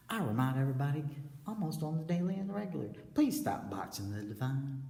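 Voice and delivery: fervent high-pitched appeal; loud exhortation. Real, not acted.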